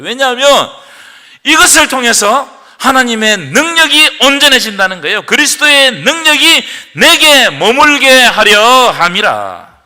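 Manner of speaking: 크게 높여 외치는 선포; 끝 구절을 천천히 크게 선포하듯; preaching at full force. Acted. 고조되는 설교 낭독. (크게 외치는 설교 선포)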